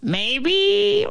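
very high, squeaky crow voice; crow Roy. A narrator's reading.

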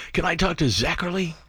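mock child voice, pushy and hopeful; little kid pleading. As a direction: play a nine-year-old begging to talk to his hero. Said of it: "I'm a little kid".

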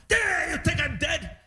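high, slow, indignant complaint; mock grumpy dad. Grumpy father protesting being pushed, high slow mock outrage. Dad furious about wheelchair.

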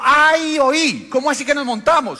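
high, loud incredulous laugh-shout; mocking laughing disbelief. Antioqueño mocking the pastor, laughing loudly. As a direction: crack up at the stowaways' answer. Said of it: "empezó a reírse y dijo".

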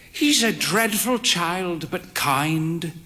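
lightly voiced frail old lady, confiding; confiding old mother. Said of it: "she confided".

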